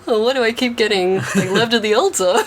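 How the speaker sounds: high, loud, laughing through it; laughing mock whine. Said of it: "he's probably just like".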